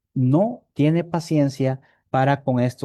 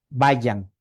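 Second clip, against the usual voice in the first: dismissive; 4 semitones lower, slower than usual. Retold or imitated. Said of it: "todo despectivo".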